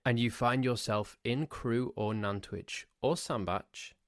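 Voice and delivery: usual speaking voice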